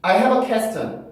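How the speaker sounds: I have a question with question said as 퀘스천, hard k, slow; deliberately wrong Konglish take of question; wrong Korean-style pronunciation. Shown as a demonstration. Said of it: "이러면 이상해요". (콩글리시식 퀘스천 발음)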